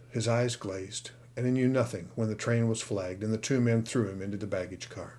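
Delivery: plain reading voice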